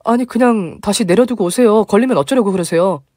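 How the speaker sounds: high, flustered pleading; anxious urging. Retold or imitated. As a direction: beg her to put it back. Narrator urging mother-in-law.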